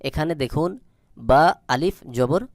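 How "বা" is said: slow, stretched বা; elongated vowel. Shown as a demonstration. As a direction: hold the a of বা for a long beat. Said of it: "এক আলিফ টান দিয়ে পড়তে". (বা টান দিয়ে পড়া)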